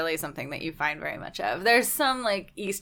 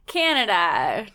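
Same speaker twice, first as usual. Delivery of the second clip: mock stereotypical Canadian; 4 dB louder, slower than usual. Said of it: "stereotypical maple syrup".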